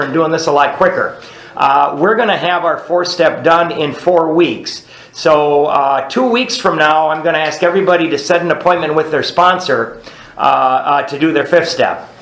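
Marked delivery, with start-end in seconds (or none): none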